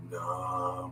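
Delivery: drawn-out, low, soft syllables; very slow. Shown as a demonstration. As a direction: sound it out syllable by syllable, very slowly. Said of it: "You might be like this".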